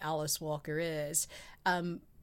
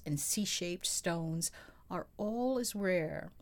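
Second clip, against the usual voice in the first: sexy voice. Pretend. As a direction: read it seductively. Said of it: "I'm gonna put on my sexy voice".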